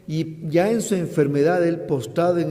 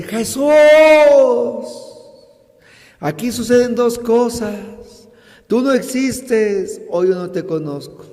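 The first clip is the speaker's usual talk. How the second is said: higher, a touch of reproach; retold, lighter reproach to Jesus; complaining; 6 semitones higher, 6 dB louder than usual. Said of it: "él le reclama y dice".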